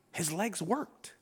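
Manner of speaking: soft, low and slow, no excitement; low-key, matter-of-fact; sterile reading. Shown as a demonstration. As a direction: read it off as routine fact. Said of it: "like, sterile".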